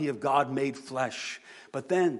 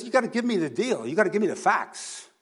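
higher, insistent demand for proof; pragmatic Thomas; 8 semitones higher, 6 dB louder, faster than usual. Retold or imitated. Preacher playing Thomas demanding facts, higher and insistent. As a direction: push hard like a blunt glass-half-empty guy. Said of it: "And he just says".

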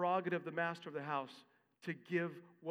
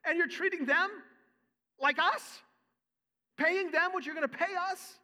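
higher, much louder, outraged whine; indignant workers complaining; 10 semitones higher, 8 dB louder than usual. Retold or imitated. Workers to the master about unfair pay, loud angry complaint. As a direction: protest like underpaid laborers who feel cheated. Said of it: "They're saying".

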